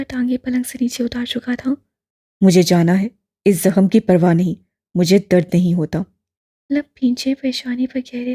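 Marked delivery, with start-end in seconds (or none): 2.4-6.0 low, louder, stubborn insistence; lightly voiced young man, defiant; determined young man pushing back. A narrator's reading. Duran insists on leaving.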